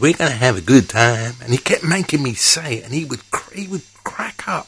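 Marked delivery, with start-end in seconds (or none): 0.0-1.3 put-on American Western accent, higher and louder. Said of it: "the U S A Western accent, and I could do it good".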